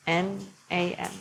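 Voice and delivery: N A M, each letter said separately; N A M spelled for the class. Shown as a demonstration. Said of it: "and with the exhale".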